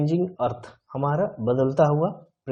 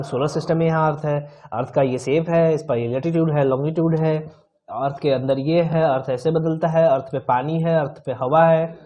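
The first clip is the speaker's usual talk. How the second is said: emphatic listing; 4 dB louder than usual. Shown as a demonstration. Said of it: "ऐसे थोड़ी पढ़ेंगे".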